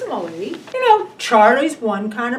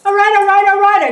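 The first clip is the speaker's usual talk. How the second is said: exasperated; 7 semitones higher, 8 dB louder, faster than usual. Acted. Wife gives in, exasperated.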